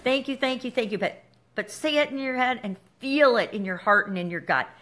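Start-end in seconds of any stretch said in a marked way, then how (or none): 0.0-1.0 bright grateful thanks. Shown as a demonstration. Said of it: "Thank the universe".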